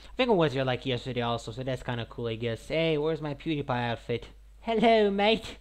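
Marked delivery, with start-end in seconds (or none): 4.6-5.6 high, bright cartoon hello; silly greeting. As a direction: greet like a cheeky Brit.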